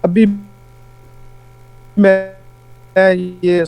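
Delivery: broken-up audio, words dropping; bad connection, speech breaking off; voice cutting out. Real, not acted. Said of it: "آپ کی آواز کٹ گئی ہے".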